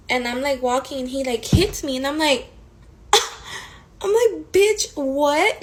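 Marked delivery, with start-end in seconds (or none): 4.0-5.6 sudden high, loud what?; high, loud and stunned; shocked outburst. Retold or imitated. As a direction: snap back in disbelief. Angry reaction to being hit.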